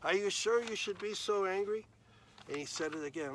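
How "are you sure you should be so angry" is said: higher, louder gentle questioning; God gently questioning angry Jonah; patient God. Acted. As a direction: coax him like a patient father. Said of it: "God said".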